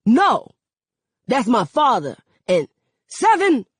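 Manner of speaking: high, loud commanding yell; father on the ground yelling at his son. Acted. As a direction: yell at the kids to stop. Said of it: "Daddy yells".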